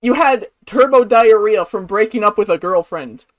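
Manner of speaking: loud, baffled questioning; ranting in disbelief; incredulous rant. Real, not acted. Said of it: "baffled loud rant".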